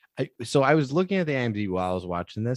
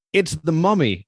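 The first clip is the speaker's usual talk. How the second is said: high, louder cry of alarm; professor's alarmed movie line; 7 semitones higher, 5 dB louder than usual. Retold or imitated. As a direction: announce the monster like a B-movie professor. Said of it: "this is my favorite line".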